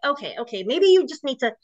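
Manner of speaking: a hint of put-on soothing concern; fake worried husband. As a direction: lightly mimic the husband talking her down. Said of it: "he would just keep talking like that".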